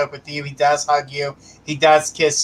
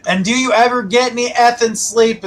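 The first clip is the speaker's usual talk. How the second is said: higher, teasing relay of the husband's question; the husband's words; 7 semitones higher, 3 dB louder than usual. Retold or imitated. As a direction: pass on his jab, pitched up. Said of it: "That's how he said it".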